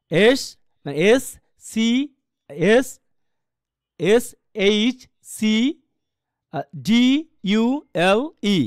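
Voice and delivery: letters one by one, pauses between; spelling aloud. Shown as a demonstration. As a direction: spell out each letter for learners. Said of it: "আপনি কিন্তু spelling করবেন এভাবেই". (অক্ষর ধরে ধরে বানান)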